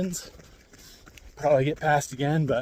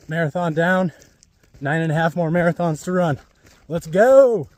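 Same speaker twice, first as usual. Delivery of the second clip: excited; 4 semitones higher, 7 dB louder than usual. Real, not acted. Cheering mid-race on the run.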